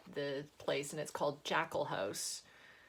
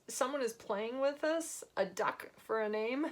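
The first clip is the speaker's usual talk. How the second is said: usual speaking voice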